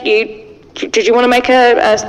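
ordinary talk, nothing marked

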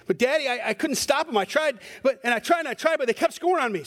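lightly voiced six-year-old pleading with his dad; upset little boy. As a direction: plead like a small boy who failed. Six-year-old son answers father.

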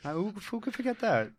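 incredulous exclaim. Acted. Mocking the famous Buckner error.

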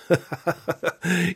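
high, soft amused laugh; light laugh. Shown as a demonstration. Parent insults you, you answer with a soft high laugh. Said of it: "you could even laugh in response".

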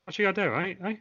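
hammed-up Cockney wrestler promo; Cockney Hulk Hogan. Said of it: "Cockney Hulk Hogan would be the best one".

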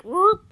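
high-pitched little door sound effect; imitated door noise. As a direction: mimic the door popping open with a high blip. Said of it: "we hear click, click".

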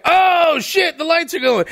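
hammed-up office yelling at the lights; mock excited shout. Office reacts to blinking lights.

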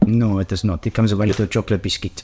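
lightly voiced French café owner; French accent. Café owner correcting a customer's order, French accent. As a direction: answer in a put-on French accent. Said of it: "Does it speak in a French accent".

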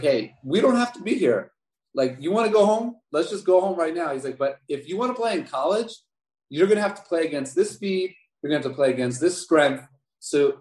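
lightly voiced coach pushing him to quit or fight; coach's tough talk.

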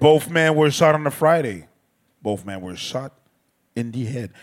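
narrateur de documentaire sérieux; voix de documentaire. Acted. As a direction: lis ça comme un documentaire grave. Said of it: "je prends ma voix de documentaire". (voix off de documentaire)

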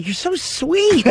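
high, slow, forced sweet reply; awkward sweetness. Retold or imitated. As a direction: squeeze it out politely, cringing. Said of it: "like, feeling so awkward".

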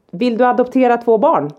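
high-pitched acted plea; exasperated offer. Mum asks neighbour in front of the kids, exasperated offer. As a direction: re-enact a fed-up offer to give the kids away.

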